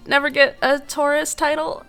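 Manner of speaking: laughing it off; rueful laugh through words. Real, not acted. Laughing heard.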